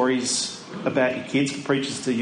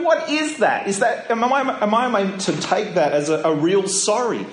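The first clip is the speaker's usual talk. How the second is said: higher, incredulous mock outrage; a playfully indignant dad, pitch climbing; indignant disbelief; 4 semitones higher than usual. Dad challenging his daughter's careless apology, with mock outrage.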